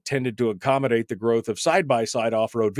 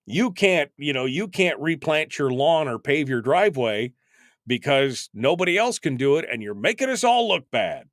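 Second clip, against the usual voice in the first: mock indignant; 3 semitones higher than usual. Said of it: "I'd be like".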